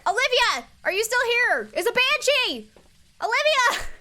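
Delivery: high, loud alarmed calls; startled yelling. Real, not acted. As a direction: shout out in alarm. Ghost event startles streamer.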